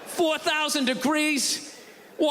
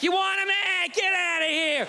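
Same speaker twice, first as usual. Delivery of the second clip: higher, brusque shelter guy; careless pound worker; 4 semitones higher than usual. Retold or imitated. Pound worker brushing off people who want a dog, brusque and higher. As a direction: shove the dog at them and wave them off.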